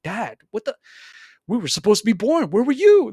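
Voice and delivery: put-on the unborn kids calling out dad; hammed-up betrayed children; accusing kids. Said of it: "they're just like".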